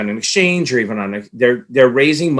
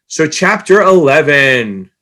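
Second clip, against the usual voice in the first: slow, louder announcer boom; fighting game announcer; 4 dB louder, much slower than usual. Acted. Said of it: "try to do my announcer voice".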